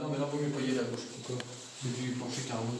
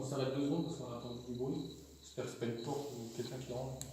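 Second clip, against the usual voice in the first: nervous night vlog whisper; 11 dB quieter than usual. Real, not acted. They just heard a strange noise.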